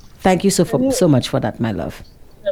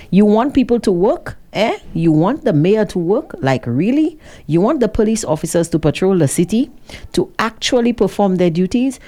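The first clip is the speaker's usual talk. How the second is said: mock incredulous; 5 semitones higher than usual. Host mocks a listener's comment.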